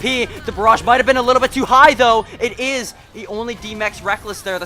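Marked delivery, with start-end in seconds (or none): 0.0-2.9 louder and higher, rushing the call; excited play call. Real, not acted. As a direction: burst out over the big play. Big play, caster hype.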